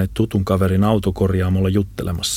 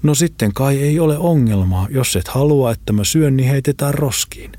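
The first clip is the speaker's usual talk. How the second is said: higher-pitched, appeasing character voice; placating; 6 semitones higher than usual. A narrator's reading. Friend tries to hold Lambo back, placating in high voice. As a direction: try to calm him down in a raised pitch. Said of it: "Holopainen toppuutteli vielä".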